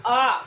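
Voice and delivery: आ drawn out as a long vowel. Shown as a demonstration. Teacher shows pupils a long vowel, drawn out. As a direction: hold आ for twice the time. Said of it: "आ बोलने में हमें उससे दुगना समय लगता है".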